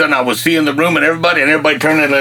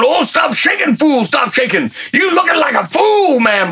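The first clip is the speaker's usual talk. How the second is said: inner scolding yell; 9 semitones higher than usual. Retold or imitated. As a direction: yell at yourself to stop shaking, in Alaskan English. Inner scolding while shaking.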